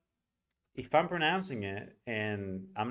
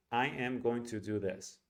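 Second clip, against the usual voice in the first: every word fully said, Spanish-like syllable timing; Spanish or Italian rhythm. Shown as a demonstration. Teacher imitating advanced learners, Spanish-accented even rhythm. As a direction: give each word equal weight, like a Spanish speaker. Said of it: "like Spanish, like Italian".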